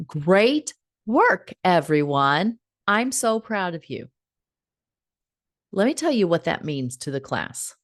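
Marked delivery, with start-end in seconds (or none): 0.1-4.1 generic teacher praise. Shown as a demonstration. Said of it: "I have seen teachers do this".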